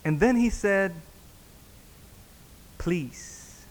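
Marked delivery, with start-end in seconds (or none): 2.8-3.7 softly spoken, subdued please; retold soft plea. Husband asks pastor into car, retold soft plea. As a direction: plead quietly, imitating the husband.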